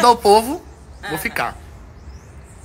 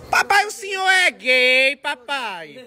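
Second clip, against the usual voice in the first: teasing; 5 semitones higher, much slower than usual. Acted. Son teasing his father.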